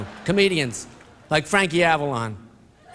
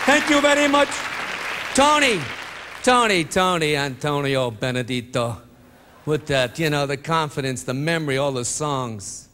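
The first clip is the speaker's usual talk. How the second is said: Impression of a famous crooner. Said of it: "Tony Bennett".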